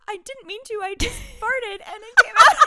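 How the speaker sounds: put-on kid voice. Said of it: "she goes".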